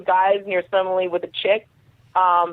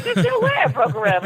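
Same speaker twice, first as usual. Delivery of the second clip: high dismissive quote; 10 semitones higher than usual. Retold or imitated. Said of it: "I'm like".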